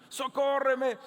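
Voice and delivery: loud, high plea; pleading cry. Retold or imitated. The mother still calling after Jesus, loud plea. Woman crying out again.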